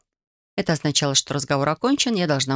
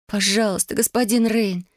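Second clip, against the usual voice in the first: high, begging plea; pleading; 5 semitones higher than usual. Acted. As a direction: beg him, voice lifting. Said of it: "взмолилась я". (умоляюще)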